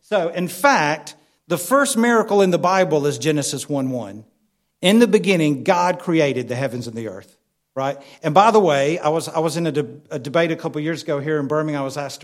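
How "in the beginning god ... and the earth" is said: proclaimed loud, then settling; scripture quote. Acted. Preacher proclaiming Genesis to the church, ringing. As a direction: declaim the opening verse of Genesis.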